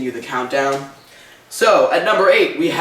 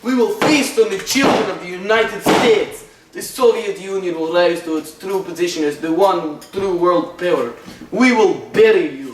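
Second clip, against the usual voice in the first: put-on Russian accent; 3 semitones higher than usual. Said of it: "bust out the Russian accent".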